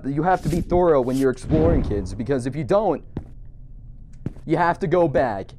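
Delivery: a hint of a schoolteacher lecturing children; mock lecture. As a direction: lecture like a jokey teacher. Mock lesson to kids.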